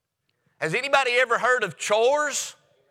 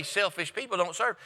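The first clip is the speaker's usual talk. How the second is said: softer, dropping the voice on Selfish people don't serve; soft repeated statement; 5 dB quieter than usual. Shown as a demonstration. Preacher repeating his point to the church, quietly. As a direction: say it again quietly so it sinks in. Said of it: "I want you to mark it down".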